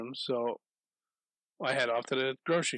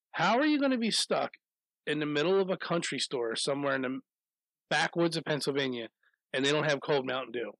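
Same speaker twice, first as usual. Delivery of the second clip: mock outrage. Ranting about cold Mountain Dew.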